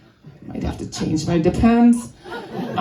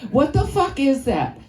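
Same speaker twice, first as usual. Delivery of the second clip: put-on uncensored kid gripe; 4 semitones higher than usual. Kid opening her lunch, saying fuck outright. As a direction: say fuck and mean it a little. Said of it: "Or I can say fuck, can't I?".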